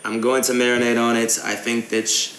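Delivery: casual fake English accent for a prank call; put-on English accent. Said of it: "gaming in an English accent".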